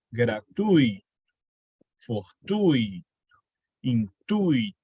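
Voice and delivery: Gratuito, fortuito, intuito each said alone, with the u stressed over the gliding i; a slow list of model words, ui kept in one syllable; model pronunciations. Shown as a demonstration. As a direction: recite the words one by one like a teacher. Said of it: "são sempre ditongos".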